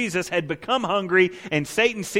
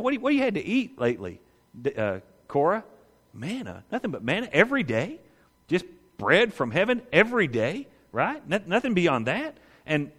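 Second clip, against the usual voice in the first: tempting Satan. Acted. Satan coaxing Korah in the wilderness, slyly persuasive. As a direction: lean in and sweet-talk him into it.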